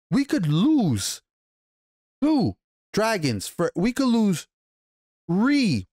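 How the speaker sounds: high, slow, building excitement; hyped-up brother pushing war; excited rant. Retold or imitated. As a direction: pitch up as the numbers climb. Excited dragon math rant.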